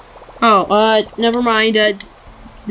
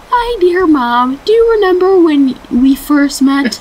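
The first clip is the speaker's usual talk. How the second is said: grandma voice; 4 semitones higher than usual. Pretend. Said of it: "I don't know how to do a good grandma voice".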